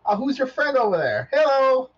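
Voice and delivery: high chirpy robot introducing himself; bright little robot making friends. Acted. Robot introducing himself to Arya, high and chirpy.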